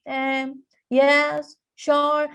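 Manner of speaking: reluctant half-hearted yes; grudging, lukewarm agreement; unenthusiastic. Shown as a demonstration. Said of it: "That shows that we lack our enthusiasm".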